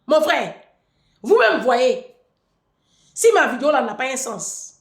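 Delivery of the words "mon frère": ordinary talk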